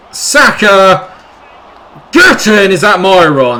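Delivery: high, loud cheering; excited goal shout. Real, not acted. Gamer celebrating his equaliser, loud excited cheer. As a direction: yell as the goal goes in.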